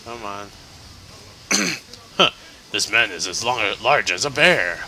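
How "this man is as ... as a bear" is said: deep monotone game voice. Retold or imitated. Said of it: "his voice is very deep and very monotonous".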